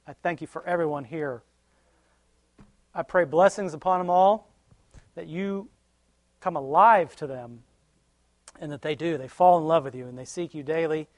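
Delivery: earnest spoken prayer. Real, not acted. Preacher closing the service with a prayer. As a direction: pray sincerely for the group.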